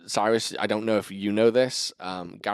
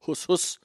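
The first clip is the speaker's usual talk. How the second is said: higher-pitched mock punch noises; imitated boxing puffs; 7 semitones higher than usual. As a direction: mimic a shadow boxer's puffs. Imitating shadow boxing punch sounds.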